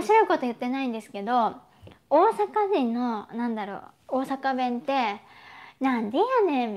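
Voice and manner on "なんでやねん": lively Kansai intonation on "なんでやねん", the pitch swinging up and down; Osaka-dialect retort. Shown as a demonstration. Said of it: "その抑揥があるから".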